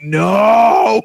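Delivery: long, loud rising "no"; retold horror. Dad reacting to daughter growing up, drawn-out horrified cry. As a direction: wail it in mock dismay.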